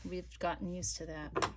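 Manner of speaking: ordinary talk, nothing marked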